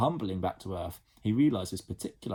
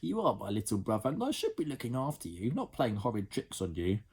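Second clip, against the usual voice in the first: put-on higher girl's voice, apologetic; a big sister saying sorry; sorry older sister Jemima; 4 semitones higher than usual.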